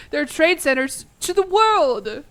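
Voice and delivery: slow, loud, laughing through the words. Real, not acted. Streamer laughing to chat at his own blunder, laughing. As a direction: crack up at your own blunder.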